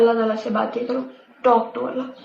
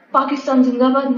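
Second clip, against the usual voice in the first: mock patriotic cheer. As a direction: cheer it like a half-serious slogan. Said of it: "Pakistan زندہ باد کر کے واپس آ کے".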